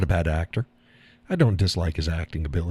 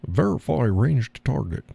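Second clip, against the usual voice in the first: put-on Scottish accent; 5 semitones higher, slower than usual. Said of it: "Russian sub commander with a Scottish accent".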